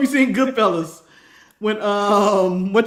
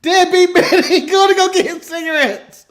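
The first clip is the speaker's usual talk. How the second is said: laughing mockery; 9 semitones higher, 7 dB louder than usual. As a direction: cackle it out, teasing a friend. Mocking deadbeat dad story.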